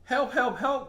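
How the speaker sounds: high, loud cries for help; little truck stuck in the mud, crying out for help; calling for help. A narrator's reading. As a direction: call out for help. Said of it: "called little blue truck".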